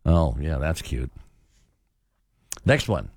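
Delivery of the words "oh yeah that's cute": low, dismissive and patronizing; low-key condescending. Shown as a demonstration. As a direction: brush them off with faint praise. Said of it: "say it in our most condescending way".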